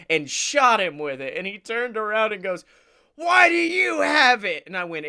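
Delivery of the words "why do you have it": put-on high, accusing kid's yell; mock indignant shout. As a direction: imitate an outraged little boy. Retelling boy's outraged question.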